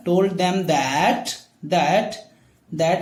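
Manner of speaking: "Told them that" stretched out slowly; slow dictation. Shown as a demonstration. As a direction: spell it out slowly for the class. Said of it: "teacher dictates sentence". (बहुत धीमी dictation आवाज़)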